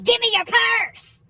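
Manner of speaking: high, drawn-out mock bark; aggressive demand. Bailiff ordering the old lady, hammed-up aggression. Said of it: "he said it so aggressively".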